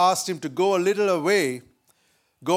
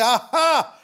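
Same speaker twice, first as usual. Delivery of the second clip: lightly acted gotcha, higher-pitched; spring out with a triumphant aha; gloating neighbour; 4 semitones higher, 4 dB louder than usual. Neighbour jumping out of the bush, mildly gloating. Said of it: "the neighbor jumped out of the bush and said".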